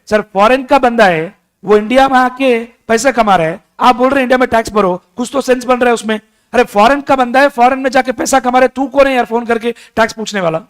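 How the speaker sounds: rapid, exasperated outburst as the foreign player; hammed-up fast protest; mock indignant rant. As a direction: fire it off fast, scoffing at the taxman.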